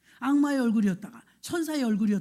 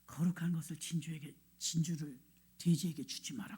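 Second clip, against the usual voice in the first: low, soft, hushed retold voice; Holy Spirit speaking; 6 semitones lower, 7 dB quieter than usual. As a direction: quote a solemn inner voice, low and quiet. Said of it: "성령께서". (낮고 조용한 성령의 음성)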